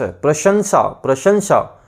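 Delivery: प्रशंसा spelled out slowly, syllable by syllable; slow syllable demo. Shown as a demonstration. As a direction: draw out प्रशंसा for the students. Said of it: "प्र, फिर श". (प्रशंसा धीरे-धीरे, अक्षर-अक्षर बोलकर)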